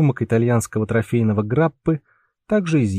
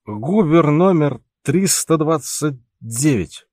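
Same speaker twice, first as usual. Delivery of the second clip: put-on drunken shout; 4 semitones higher, slower than usual. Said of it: "пьяно выкрикивал Пауль".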